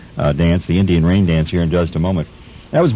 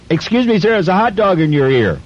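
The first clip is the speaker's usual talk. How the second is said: louder still; 11 semitones higher than usual. Retold or imitated. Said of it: "So I said a little louder".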